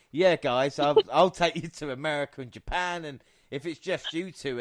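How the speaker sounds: a hint of a chummy British wrestler; British celebrity voice. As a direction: play the friendly British star, cheerful. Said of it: "He's British".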